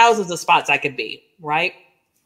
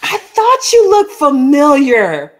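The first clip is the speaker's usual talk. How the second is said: imitating the fisherman; 7 semitones higher, 3 dB louder, slower than usual. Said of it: "And he goes".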